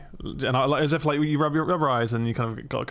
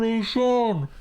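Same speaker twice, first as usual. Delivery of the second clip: excited callout; 10 semitones higher than usual. Retold or imitated. Gamer callout in Call of Duty story.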